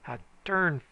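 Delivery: high loud bellow of scorn; loud scornful bellow; bellered. A narrator's reading. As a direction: bellow the accusation. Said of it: "bellered the man".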